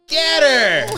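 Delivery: sudden high joking shout; playful high shout; mock battle cry. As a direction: yell it like egging on a fight. Mock friend urging attack.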